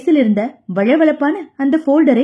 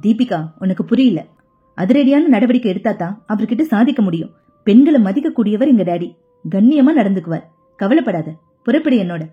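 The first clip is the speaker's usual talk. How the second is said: a lightly lowered male voice, pressing her to come; urgent young man; 5 semitones lower than usual. Acted. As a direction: push her to hurry, a touch lower. Mithun voiced by narrator. (சற்றுத் தாழ்ந்த அவசரக் குரலில் இளைஞன்)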